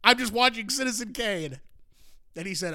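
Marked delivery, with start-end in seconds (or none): 0.0-1.6 a hint of defensive teenager; slightly raised, acted innocent reply; teen answering dad. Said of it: "And I said".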